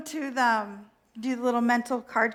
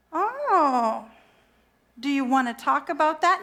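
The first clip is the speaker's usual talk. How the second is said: put-on valley girl God. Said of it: "God is definitely kind of a valley girl".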